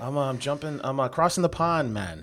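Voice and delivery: hint of a mock Jamaican accent; lightly put-on Jamaican accent. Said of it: "in your Jamaican accent".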